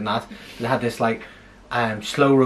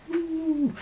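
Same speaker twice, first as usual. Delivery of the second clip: impressed ooh; 6 dB quieter than usual. Retold or imitated. Impressed reaction retold.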